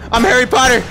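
high, loud panicked declaration; over-the-top battle cry; frantic yell. Pretend. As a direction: yell it as a desperate defence. Frantically fending off attacker.

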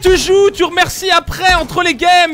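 furious yell at a teammate; angry shouting. Real, not acted. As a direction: bark it out in rage.

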